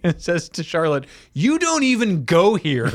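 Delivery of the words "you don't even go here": high, slow, sassy put-down; sassy quote. Retold or imitated. Host quoting Bianca's sassy line to Charlotte, higher and slower. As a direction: deliver it like a Mean Girls burn. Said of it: "she's like".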